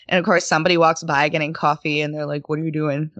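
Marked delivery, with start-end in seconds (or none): 2.5-3.1 lightly voiced tech bro, barely off her own voice; a hint of a casual coworker poking his head in; mild tech guy imitation; guy in tech impression. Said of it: "It's my guy in tech impression".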